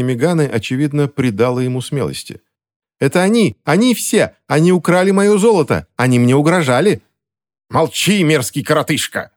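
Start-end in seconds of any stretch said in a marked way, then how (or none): 3.0-7.0 high, piping accusations; thin-voiced accuser. A narrator's reading. Thin-voiced accuser continues his outburst. 7.7-9.3 angry yell. A narrator's reading. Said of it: "заорал Грегсон".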